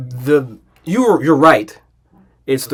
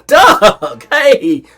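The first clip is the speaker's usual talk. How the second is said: high, loud imitated hello; excited greeting; 7 semitones higher, 5 dB louder than usual. Retelling the pro reaching Doug last, mock excitement. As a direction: greet with exaggerated eagerness. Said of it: "and was like".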